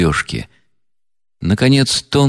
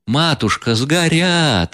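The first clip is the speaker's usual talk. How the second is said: shrill wail, rising much higher on сгорят; 7 semitones higher, slower than usual. A narrator's reading. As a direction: wail over the burning money. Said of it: "вопил Лебедев".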